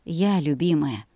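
gentle loving answer; smiling tender reply. Acted. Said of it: "улыбнулся он".

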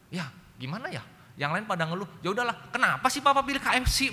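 put-on high, childish complaining voice; whiny little kid. Youngest child whining at papa about KFC. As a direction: whine like a small child copying his siblings.

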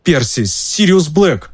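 high, slow, breathless with fear; nearly fainting. Acted. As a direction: force the words out near fainting. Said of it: "выговорил Рон, едва не теряя сознание".

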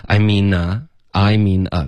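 "I mean啊" run together as one unit; "I mean啊" with no gap before the final vowel; linked speech. Shown as a demonstration. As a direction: link the n of "I mean" into "啊". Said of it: "连读".

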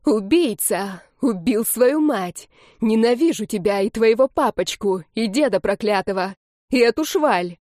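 a lightly voiced wild, bitter tirade; furious screaming. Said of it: "дикими озлобленными воплями".

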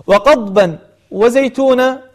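وقضبا وزيتونا spoken slowly with clear n and a break; tanween separated. Shown as a demonstration. Teacher marking the second place, words said slowly and separately. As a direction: separate وقضبا from وزيتونا, sounding the first word's n. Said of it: "هذا الموضوع الثاني".

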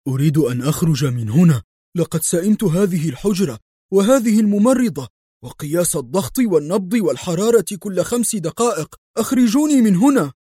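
a patient fed up, shouting to get out; patient shouting at the doctor to let him out. A narrator's reading. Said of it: "صاح به قدري".

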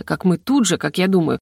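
ordinary delivery, nothing marked

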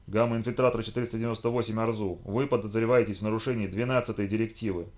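dry. Acted. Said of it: "сухо произнёс регулятор".

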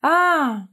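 sudden scared cry as her foot slips; frightened cry. Acted. Daughter slipping off windowsill, frightened high yelp. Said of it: "испуганно вскрикнула она".

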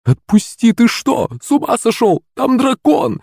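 very high squealing protest; panicked shriek. A narrator's reading. Mother held back from her daughter, shrieking in panic. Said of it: "взвизгнула она".

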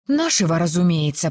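ordinary delivery, nothing marked

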